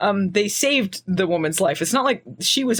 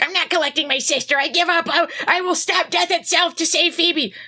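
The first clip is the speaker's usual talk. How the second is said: mock defiant; 6 semitones higher than usual. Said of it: "where she's like".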